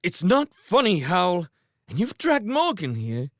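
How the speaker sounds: high, loud reproach; angry scolding. Acted. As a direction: scold him in exasperation. Sophie scolding Howl.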